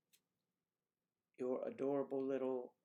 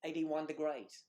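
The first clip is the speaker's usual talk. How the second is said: slow, higher-pitched Australian mimicry; Australian accent; 5 semitones higher, 3 dB louder than usual. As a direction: imitate an Australian voice assistant. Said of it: "her accent is Australian".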